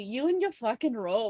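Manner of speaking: unsure, put-on Irish accent attempt. Warming up before voicing a character in the story, attempting an Irish accent. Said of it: "to get prepared for my Irish accent".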